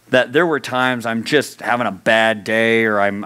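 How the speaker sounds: usual speaking voice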